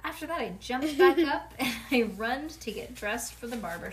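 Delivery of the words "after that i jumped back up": excited. Acted. Excited narration.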